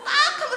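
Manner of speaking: "딱" pitched very high and punched; laughing stress on "딱 한 번"; emphatic repeat. Real, not acted. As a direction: hit "딱" high and loud, amused. 웃으며 딱 한 번을 강조.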